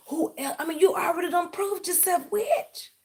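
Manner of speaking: high mocking taunt. Real, not acted. Mocking her rival as a witch in a high taunting voice. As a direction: pitch jumps up into a mocking taunt.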